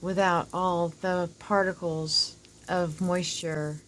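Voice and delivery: whistling s from dental work. Real, not acted. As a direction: let the s sounds whistle slowly. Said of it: "Sorry for the whistle there".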